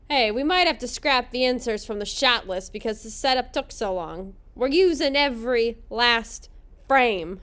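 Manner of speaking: lightly put-on gruff worker with an unplaceable accent; badly faked blue-collar accent. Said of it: "gruff blue-collar worker voice".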